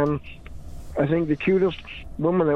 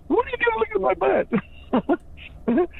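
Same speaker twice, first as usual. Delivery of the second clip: high, croaky mock witch snapping back; old witch voice; faster than usual. Coworker retold to a friend, as a high mock old witch. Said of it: "She sounded like an old witch".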